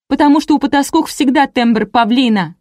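high, heated shouting; angry yell. A narrator's reading. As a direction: burst out in jealous outrage. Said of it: "заорала Леся". (сердитый крик)

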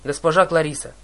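a loud call across the deck; shouted call. Acted. Captain calling to Clarisse in battle, loud call. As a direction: call out loudly to her. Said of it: "крикнул капитан".

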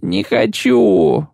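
high, slow desperate howl; yelling wounded man. Acted. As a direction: scream it out in panic. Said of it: "заорал раненый".

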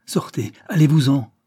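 ordre crié avec colère, plus fort; cri furieux. Acted. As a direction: chasser ses filles d'un cri rageur. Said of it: "cria-t-elle". (la marquise chasse ses filles, cri furieux)

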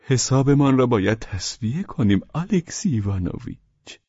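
high, gently coaxing character voice; odd, high-pitched tenderness; peculiar gentleness. A narrator's reading. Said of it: "با ملاطفت مخصوصی گفت".

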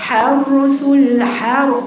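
حرث split slowly into its letters; slow, separated sounds in حرث. Shown as a demonstration. Teacher breaking down the word for her student, slow and separated. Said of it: "كل حرف".

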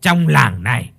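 giọng say chậm, lè nhè; kéo dài chữ như người say; frat bro. Acted. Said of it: "lè nhè nói". (chàng trai say lè nhè trêu cô gái)

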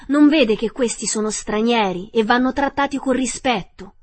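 high, loud princess scolding; affronted storybook princess; indignant reprimand. A narrator's reading.

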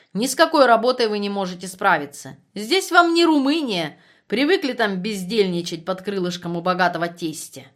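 loud contemptuous reproach; scolding. Acted. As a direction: scold him with scorn. Overseer scolding a prisoner. (презрительный упрёк)

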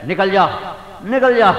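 rising sharp shout of a petty boss; angry dismissal. Retold or imitated. Petty master yelling at his servant to get out.

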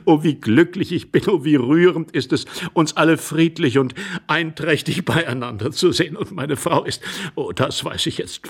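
lightly voiced gushing, earnest man; moved, effusive gentleman. Intruder happy to see everyone peaceful, effusive. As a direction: gush with relief, then insist.

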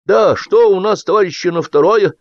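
high, loud startled catch-up; abrupt loyal chiming-in; suddenly roused. A narrator's reading. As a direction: pipe up as if jolted from a doze. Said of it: "спохватился будто с просонок преданный Голодубов".

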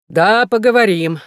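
a loud voice booming from the doorway; loud call. A narrator's reading. A voice at the door cuts in, loud call. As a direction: boom it out so everyone jumps. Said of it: "вскричал громкий голос".

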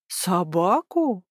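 slow, drawn-out fake surprise; feigned astonishment. District officer faking amazement at the sergeant's report, drawn out slowly. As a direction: pretend to be amazed. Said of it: "изобразил изумление участковый".

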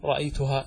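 رأيتها with the final "haa" kept; joined form, unchanged. Shown as a demonstration. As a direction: say رأيتها as "ra'aytuhaa". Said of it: "لا يتغير".

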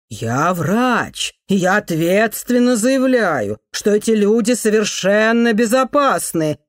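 loud, insistent reassurance to the hall; loud formal declaration. Acted. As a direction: speak up over the relatives, firm and slow. Doctor addresses relatives over the crowd.

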